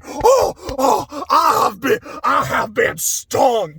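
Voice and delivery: slow, hammed-up Southern drawl; over-the-top southern drawl. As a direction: melodramatic Southern lawyer wailing in mock outrage. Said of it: "over-the-top southern drawl".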